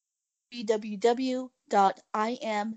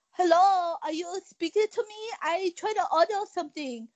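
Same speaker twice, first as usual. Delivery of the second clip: higher, insistent mock Asian accent; put-on Asian accent, pitched up; fake Asian accent; 5 semitones higher than usual. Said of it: "fake Asian accent".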